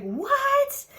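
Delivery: very high, stretched-out disbelief; high-pitched happy surprise; retold astonishment. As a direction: squeal it in mock shock. Reacts to friend's surprise news.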